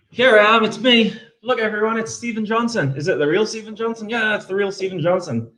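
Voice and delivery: high American voice, showing off; bright, high fake American presenter; American accent. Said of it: "Do an American accent".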